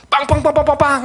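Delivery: mock furious huffing; huffing in anger. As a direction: stomp around puffing with anger. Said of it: "너무 화가 나서".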